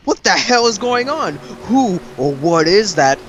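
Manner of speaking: high startled question, slowing at the end; baffled men. Retold or imitated. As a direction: imitate bewildered onlookers. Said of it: "the third Hokage's men are just like".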